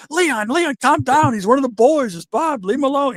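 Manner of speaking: imitating Mike soothing Vader; calming friend. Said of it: "And Mike goes".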